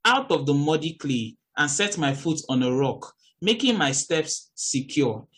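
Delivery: measured Bible reading; scripture reading. Acted. Preacher reading a psalm to her listeners, measured.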